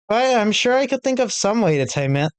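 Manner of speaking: a hint of playful Monica. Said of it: "And then Monica said".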